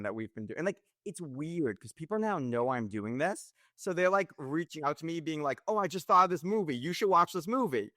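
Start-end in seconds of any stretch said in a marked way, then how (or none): 5.7-7.9 higher-voiced imitation of eager recommenders; lightly acted enthusiastic tip; eager suggestion. People reaching out with movie suggestions, mock-eager.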